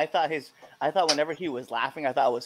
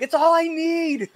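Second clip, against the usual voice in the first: playful; 6 dB louder than usual. Retold or imitated. Teasing reply.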